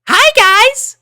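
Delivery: very high, loud chirpy greeting. A narrator's reading. Sanada greeting her friends, very high loud chirp. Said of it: "Sanada chirped".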